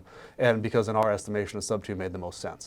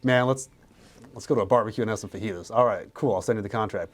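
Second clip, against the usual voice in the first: mock upbeat pitch, higher and louder; breezy one-call close; 4 semitones higher, 6 dB louder than usual. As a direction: toss off an easy deal cheerfully. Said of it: "Everyone loves the one call close".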